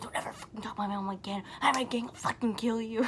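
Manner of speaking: fast, hushed mock yell; retold angry threat. Retelling a friend's threat after the choking, mock yelling. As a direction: imitate an angry threat, rushed and half-whispered. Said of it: "he was just, like, yelling at me".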